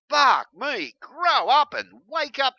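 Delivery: high and loud, fed-up yelling; angry outburst. Real, not acted. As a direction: blast it at them, exasperated. Upset rant at Christians.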